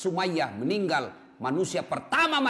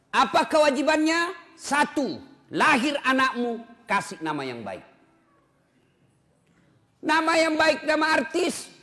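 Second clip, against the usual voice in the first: louder, higher preacher's call; rousing sermon delivery; preaching; 5 semitones higher, 5 dB louder than usual. Acted. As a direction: preach it out to the congregation. Preaching with rising force.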